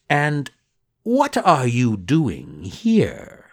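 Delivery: slow, sly fox; lightly voiced fox probing. Fox asks Pinocchio.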